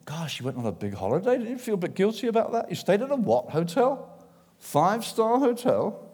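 mock-scandalised questioning; acted judgmental busybody; disapproving. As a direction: needle them with incredulous questions, pitch jumping up. Acts a disapproving fellow Christian.

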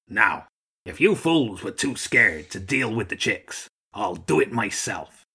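lightly voiced commanding old gull; gruff old Archduke. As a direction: take charge of scared troops.

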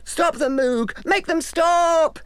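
high, panicked plea; crying out. Acted. Everyone begging the Moog to stop the bones, high and urgent. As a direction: beg him to stop it. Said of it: "everyone cried".

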